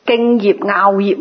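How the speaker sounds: 樂 said as "ngaau" in 敬業樂業; 敬業樂業 with 樂 read ngaau; corrected reading. Shown as a demonstration. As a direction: pronounce 樂 in 敬業樂業 like ngaau, not lok. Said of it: "應該".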